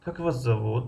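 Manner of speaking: weight on the final зовут; rising ending. Shown as a demonstration. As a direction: keep Как unforced, stretch and lift зовут. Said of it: "охири ҷумларо баланд талаффуз кардем".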